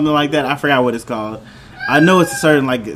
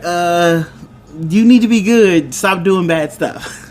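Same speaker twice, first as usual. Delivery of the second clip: leaning into it; 3 semitones higher than usual. Retold or imitated. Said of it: "he really leans into it".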